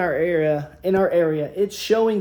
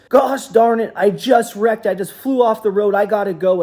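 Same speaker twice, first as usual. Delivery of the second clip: hurried, louder, a bit higher: the hauler just crashed; retold flustered panic; 3 semitones higher, 6 dB louder than usual. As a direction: driver rattled, rushing to get off the phone. Hauler calling after wrecking truck.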